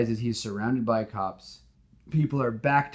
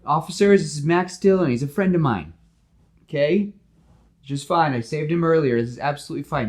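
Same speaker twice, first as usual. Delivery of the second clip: much higher, louder appeal; Spider-Man vouching; 7 semitones higher, 8 dB louder than usual. Acted. Spider-Man telling officers Max is a friend, loud. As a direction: call out to the police firmly. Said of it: "He goes".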